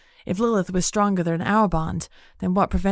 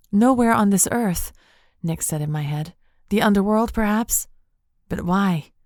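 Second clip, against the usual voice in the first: higher, puzzling it out; spirit voice; 3 semitones higher than usual. Acted. Nyx in head.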